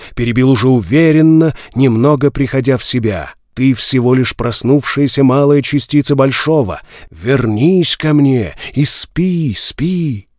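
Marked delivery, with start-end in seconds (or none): 3.5-10.3 echoing ethereal energy being. Acted. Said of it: "странный гулкий голос".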